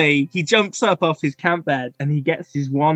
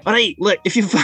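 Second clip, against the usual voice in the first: put-on Scottish kid; 4 semitones higher, much faster than usual. GM voices the kid.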